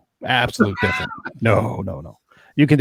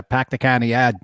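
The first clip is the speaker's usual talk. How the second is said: mock Boston accent, dropping the Rs; quick Kennedy-style Boston impression; Kennedy-esque Boston accent. Shown as a demonstration. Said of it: "that Kennedy-esque".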